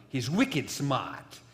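repeated slowly in a Boston accent, "smart" without the r. Shown as a demonstration. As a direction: say "wicked smart" again, Boston style, r dropped. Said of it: "I can't get my Boston accent out".

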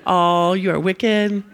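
slow blunt accusation with a laugh. Retold or imitated. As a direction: drag it out, half laughing. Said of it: "It's like".

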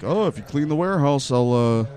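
lightly mock the joker's pitch; mocking coworker. Employee quoting his coworker's stupid teasing, mocking imitation.

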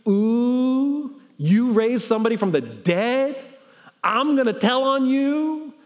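a hint of a tattletale crowing; mocking tattletale. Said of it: "their response is basically".

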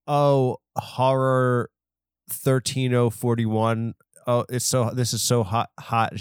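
lightly imitated cam girl reading out; mock disinterested read-off of chat messages; reading off a screen. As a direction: read it out mechanically, barely acting. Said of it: "she's reading off".

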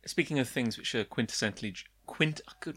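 tripping over quintessentially; stumbling over words. Real, not acted. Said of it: "John is stumbling over his words".

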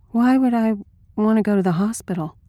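mildly dazed, distant question; far-away voice. Acted. Dazed woman answering her helper, faint far-away voice. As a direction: drift off while asking. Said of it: "far-away voice".

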